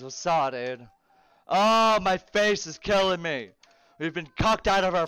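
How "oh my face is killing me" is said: pained exclamation. Real, not acted. Exclaiming in pain mid-game.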